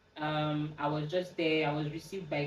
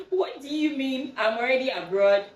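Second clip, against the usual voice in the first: loud, higher outraged objection; retold indignant protest; 7 semitones higher, 8 dB louder than usual. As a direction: act out refusing to come home. Protesting to mom's call to return.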